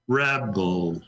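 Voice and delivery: "rebel" with REB- leaned on; deliberate "rebel", weight on the first syllable; stress on first syllable. Shown as a demonstration. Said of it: "Take the first syllable".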